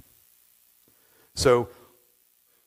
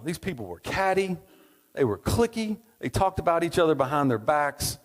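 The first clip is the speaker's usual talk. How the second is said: catty complaining wife. Acted. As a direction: play the fed-up wife griping about the neighbours. Wife complains about old town.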